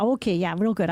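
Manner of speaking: sunny Midwest nice, lightly voiced; Minnesota phone voice. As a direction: play it polite and cheery. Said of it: "loan company were calling".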